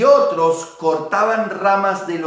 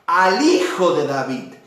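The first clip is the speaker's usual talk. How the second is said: crowd acclamation; slower than usual. Retold or imitated. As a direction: call it out like the crowd hailing the king. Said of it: "clamaba diciendo".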